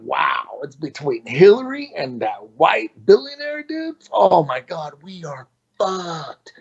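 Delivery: slow, half-crying groan of doom; mock despair. Recalling the election, mock crying we are doomed. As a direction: drag it out like it's hopeless, with a fake cry. Despair over Trump versus Hillary.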